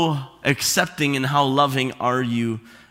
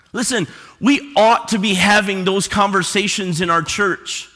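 ordinary talk, nothing marked

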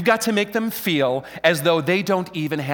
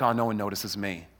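low, soft mock murmur; imitating shy back-row folk; 11 semitones lower, 8 dB quieter than usual. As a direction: shrink away as if unseen. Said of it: "coffee house folk back there that are like".

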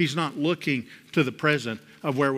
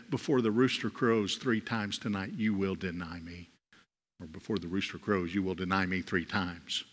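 Christ's warning; 7 semitones lower, 8 dB quieter than usual. Retold or imitated. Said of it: "the words that Christ said".

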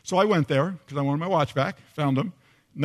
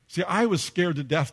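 usual speaking voice

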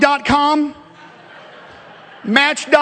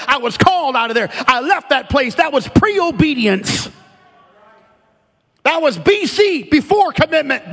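fervent preacher driving the point home; impassioned preaching; 3 semitones higher than usual. Real, not acted. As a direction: preach it with urgent conviction. Preaches with rising intensity.

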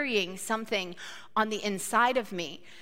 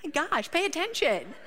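scolding driver; 7 semitones higher than usual. Retold or imitated. Scolding driver after near miss.

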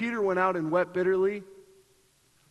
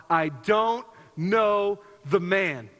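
mild mock yell; much slower than usual. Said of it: "as he yells out".

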